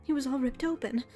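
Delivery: wistful little cat lady fretting about her papa; lightly voiced young lady cat. Same character recounts murder.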